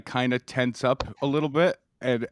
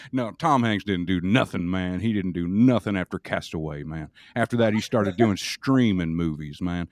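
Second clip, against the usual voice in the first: impression of a famous singer; 4 semitones lower than usual. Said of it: "I would not stop being that singer".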